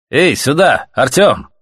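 high, loud summoning call. A narrator's reading. Stalker summoning Artyom to the car, calling out. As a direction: call to someone across the yard.

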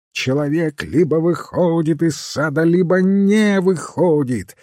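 high, insistent cry, building to the end; shouting. A narrator's reading. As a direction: shout it out in exasperation, stretching the last words. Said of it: "закричал он".

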